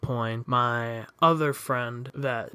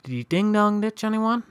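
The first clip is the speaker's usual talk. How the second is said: a lightly voiced cop, pitched much higher; cop's question; 8 semitones higher than usual. Police officer questions the teenager, lightly voiced. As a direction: play the cop asking, a touch put-on. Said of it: "He asks".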